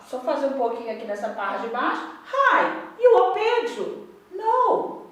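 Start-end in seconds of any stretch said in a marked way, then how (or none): 2.3-5.0 slow, louder classroom model reading for students to follow; model reading aloud. Shown as a demonstration. Teacher reading a line aloud for students to repeat: slow, loud and clear. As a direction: read it out clearly for the class to echo. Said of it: "lendo comigo sempre".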